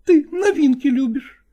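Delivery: high, bitter female reproach with a breathy start; sting him, high and hurt; jealous lover reproaching, high; reproachful woman. Acted. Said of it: "упрекнула его Настина".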